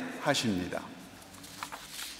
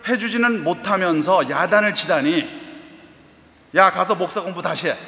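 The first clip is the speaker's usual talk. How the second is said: raised, higher scolding of her son; mother's loud scolding; 3 semitones higher than usual. Retold or imitated. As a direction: scold him hard like an indignant mother. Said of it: "하고 크게".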